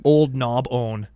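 put-on "Old Knob own" said slowly, splitting Knob from own; name broken apart. Shown as a demonstration. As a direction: draw out "Old Knob own" as separate words. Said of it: "I can't not hear Old Knob".

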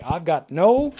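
exasperated detective, pitch climbing as he goes; acted exasperation, speeding up toward the end. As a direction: build from fed up to a high, hurried dismissal. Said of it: "He sits down exasperated".

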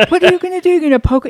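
high, loud disbelieving question; incredulous. Retold or imitated. Wife doubting husband's stick plan, loud and incredulous. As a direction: ask it like he has lost his mind.

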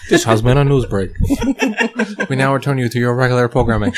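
laughing mock broadcast sign-off; old radio announcer.

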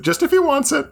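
high squeaky teasing voice; squeaky tease. Pretend. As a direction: squeak it out playfully. Teasing offer repeated.

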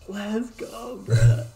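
hype, loud and high; fired-up cheer to a friend; excited. Real, not acted.

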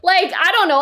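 words tumbling out through laughter; laughing. Real, not acted. Laughing at his friend's foul mouth. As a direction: still laughing as he talks.

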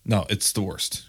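slow hushed whisper; whispered disgust. Real, not acted. Agreeing with a friend, whispering in disgust. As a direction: murmur it like a secret complaint.

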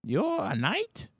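put-on a very old man telling off a youngster; old grandpa voice, then settling into a story; confused old man. Old man mistakes player for knight.

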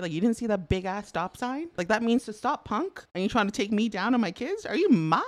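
loud, high furious yelling at another driver; a retold outburst shouted in full; road rage yelling. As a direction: let rip at the driver who nearly hit you. Road rage at driver who cut in.

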